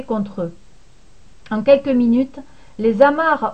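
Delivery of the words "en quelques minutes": usual speaking voice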